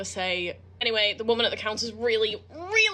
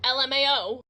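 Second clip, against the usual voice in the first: disbelieving; 3 semitones higher, 3 dB louder than usual. Real, not acted. Reacting to text, disbelief.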